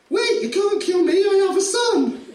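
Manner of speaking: a deliberately bad, pleading father; hammed-up begging dad; terrible dad voice. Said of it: "It's a terrible voice to choose for the dad".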